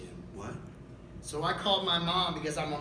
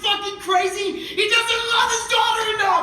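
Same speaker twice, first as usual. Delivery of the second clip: loud, high furious tirade; angry rant; 11 semitones higher, 7 dB louder than usual. Acted. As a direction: shout it at the judge.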